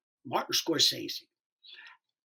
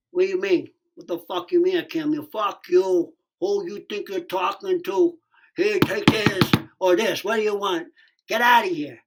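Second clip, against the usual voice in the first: heated retold confrontation; acted angry outburst; 3 dB louder than usual. Actor rails at woman refusing the meeting, angry. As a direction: lay into them, indignant.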